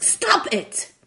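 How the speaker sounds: high, loud sudden outburst; mild mock scream. A narrator's reading. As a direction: shout it across a desk at someone. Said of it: "he screams over the desk".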